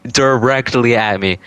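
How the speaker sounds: "directly" stretched out slowly; slow down and lean on "directly"; drawn-out emphasis on directly. Retold or imitated. Repeats it slower for emphasis.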